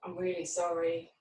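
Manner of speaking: gentle, subdued regret; apologetic. Acted. Role-plays other person apologising.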